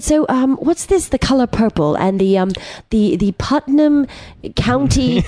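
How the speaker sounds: lightly put-on British voice, halting; imitated British accent. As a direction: puzzle over foreign titles in a British accent. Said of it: "in the cutest British accent".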